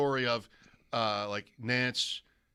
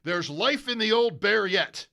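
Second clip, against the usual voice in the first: higher, louder British announcer line; imitating British accent; 7 semitones higher, 6 dB louder than usual. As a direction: deliver it like Ben Wright in a British accent. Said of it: "with his awesome accent".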